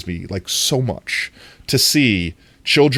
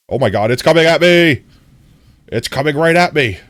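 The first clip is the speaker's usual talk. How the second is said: panicked screaming; 6 semitones higher, 6 dB louder than usual. Real, not acted. Bullet mob chasing her.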